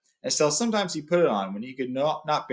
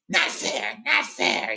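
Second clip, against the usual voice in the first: high, hissed protest; Gollum; 11 semitones higher, much slower than usual. A narrator's reading. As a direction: hiss it as an upset creature, starting high. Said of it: "he hissed".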